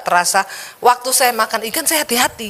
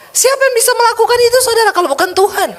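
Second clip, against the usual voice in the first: much higher, louder and fast, crying out the question; rousing shout; 11 semitones higher, 3 dB louder, faster than usual. Real, not acted. A preacher asks the congregation who but God, rousing high shout. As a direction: lift it into a fast preaching cry.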